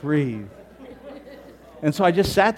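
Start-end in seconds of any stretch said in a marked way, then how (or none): 0.0-0.5 loud, high urging to breathe; loud calming commands. Retold or imitated. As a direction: urge her loudly to settle and breathe. Calming panicking woman, loud.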